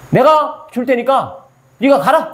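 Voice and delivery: very slow, each word weighed, 내가 stressed; slow emphatic promise. Shown as a demonstration. Preacher showing how God really spoke, slow emphasis. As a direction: lean on 내가 and draw it out. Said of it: "이렇게 하는 거예요".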